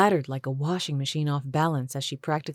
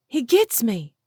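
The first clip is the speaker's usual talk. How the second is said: "He gets me" said high and loud in Julie's voice; "He gets me" pleaded in a high woman's voice; high-voiced pleading; 8 semitones higher, 5 dB louder than usual. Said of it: "with a wild look in her eyes".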